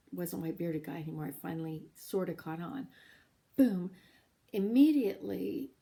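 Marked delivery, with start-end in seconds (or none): 3.6-5.7 sudden burst. Real, not acted. Sudden rainbow appears.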